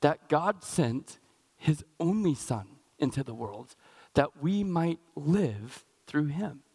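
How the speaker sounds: slow, measured verse reading; solemn, spaced-out Bible reading; scripture reading. Acted. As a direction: read the verse out deliberately, with pauses.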